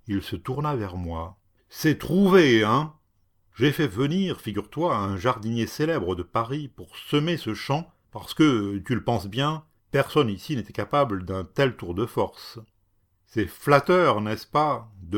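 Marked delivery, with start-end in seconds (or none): 1.7-12.6 proud boasting. Acted. Cat boasting to his guest, triumphant. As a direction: brag about the famous gardener.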